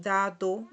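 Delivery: dado as "DA-do" with clear d; same as Spanish. Shown as a demonstration. Teacher compares languages, dado said carefully as in Spanish. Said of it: "igual que en español".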